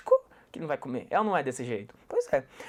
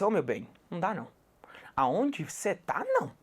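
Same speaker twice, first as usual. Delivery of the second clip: soft whisper to the student; whispered aside; 6 dB quieter than usual. Retold or imitated. Teacher whispering a correction to the student on the phone. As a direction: whisper it, half teasing. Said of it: "Eu falei assim".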